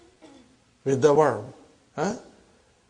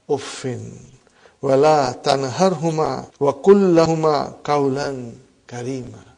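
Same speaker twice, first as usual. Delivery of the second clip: Quran recitation; 3 semitones lower than usual. Acted. Teacher reciting a beautiful Quran verse to students, measured recitation.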